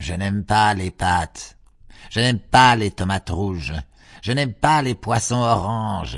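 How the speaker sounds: full-throated, high, loud yelling. Baby refuses the dinner the children cooked, yelling. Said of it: "yelled Baby".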